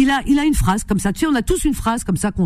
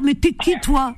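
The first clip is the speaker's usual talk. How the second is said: higher, mock-indignant challenge; imitating Khalid; 4 semitones higher than usual. To her co-host, lightly imitating Khalid's catchphrase. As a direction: play the pundit putting someone down. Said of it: "Alors ça, c'est Khalid".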